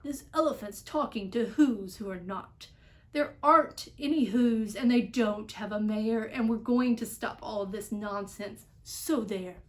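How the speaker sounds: loud jeering shout; monkeys shouting. A narrator's reading. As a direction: yell them down like rowdy monkeys. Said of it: "came shouting".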